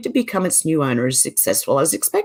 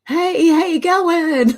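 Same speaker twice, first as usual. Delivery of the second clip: exaggerated Aussie greeting; 9 semitones higher, 3 dB louder, much slower than usual. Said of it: "And everyone's going".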